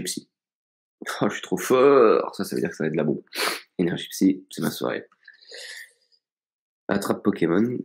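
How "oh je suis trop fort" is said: high, slow, delighted boast; excited. Real, not acted. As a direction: crow over a lucky pull. Great card pulled from booster.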